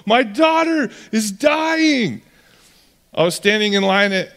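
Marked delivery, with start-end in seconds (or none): 0.1-2.2 a frantic father begging to hurry; desperate dad losing patience, building to a cry; frantic pleading. Retold or imitated. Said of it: "Jairus is just freaking out".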